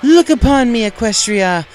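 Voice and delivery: loud, high, slow proclamation; proud loud show-off cry; grand exclamation. A narrator's reading. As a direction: announce herself to the whole crowd. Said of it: "she exclaimed".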